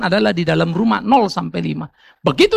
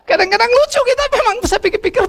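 laughing. Real, not acted. Right after his own laughter.

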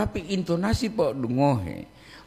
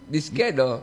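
slow repeat. Shown as a demonstration.

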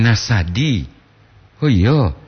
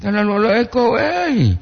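raised, emphatic intonation without anger; high intonation, not angry; 10 semitones higher, much slower than usual. Real, not acted. Host reading a comment, pitched high but not angry. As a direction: lift the pitch high but keep it friendly. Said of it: "bukan marah poli itu, Mbak intonasi".

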